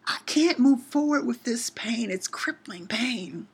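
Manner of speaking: pained whisper, slow and breathless; whispered plea. Retold or imitated. Whispering her pain in prayer to the Lord, hushed and slow. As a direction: breathe the words out as a broken plea.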